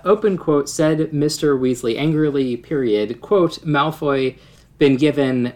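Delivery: reading aloud with punctuation spoken; dictating. Shown as a demonstration. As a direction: spell out every comma and ellipsis. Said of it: "we have what seems to be kind of a paragraph sentence".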